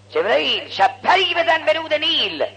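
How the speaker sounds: high, ringing order; divine command. Acted. God ordering Gabriel to strike the Nile, divine command. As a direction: call it out as a commanding summons.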